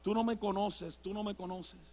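soft, low, worn-out repeating. Retold or imitated. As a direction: keep protesting quietly after tiring out. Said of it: "y todavía en voz baja". (en voz baja, ya cansado)

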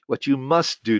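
"must" given firm emphasis; stress on must. Shown as a demonstration. Speaker repeating the highlighted warning title, stressing "must". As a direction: press on "must" as if underlined. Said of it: "must was highlighted and underlined".

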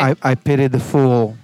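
lightly voiced Mister T, laughing; a hint of Mister T's tough growl; Mister T impression. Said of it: "was that a good Mister T".

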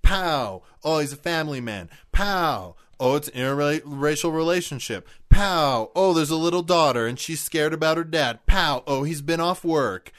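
mock-excited, hammering out each reveal; mock punches. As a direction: land each pow like a blow, then announce. Mimes realism punches hitting viewer.

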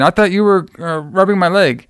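high-pitched mock fluster; imitated freak-out. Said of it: "She's, like, freaking out".

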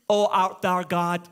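mock pious prayer, drawn out; hint of stilted holy-speak; religious, scared. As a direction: parody a timid, formal churchgoer praying slowly. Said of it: "pray these religious, scared".

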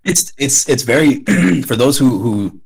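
straining a failing hoarse voice; hoarse, losing voice. Real, not acted. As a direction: voice giving out, raspy. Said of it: "sorry, I'm losing my voice here".

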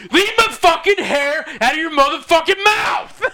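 high shouted mock fury; loud matey lad banter. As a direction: yell it in play rage. Mock fight over baldness.

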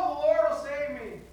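stubborn refusal. Acted. Stubborn man refuses again.

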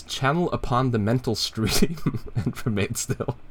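Kermit voice. Retold or imitated. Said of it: "I keep trying this fucking Kermit voice".

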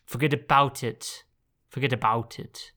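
a bit Arnold Schwarzenegger, mangled mobster; garbled Austrian-tinged gangster accent; botched gangster accent. Retold or imitated. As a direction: imitate a failed gangster accent, slightly Austrian. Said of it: "It's a little bit Arnold".

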